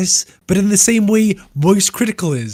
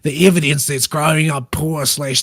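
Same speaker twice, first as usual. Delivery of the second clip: put-on Australian accent. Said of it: "Do it possibly in an Australian accent".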